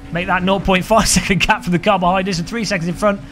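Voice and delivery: update laughing mid-number; a laugh breaks into the gap update. Real, not acted. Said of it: "repeated gap update".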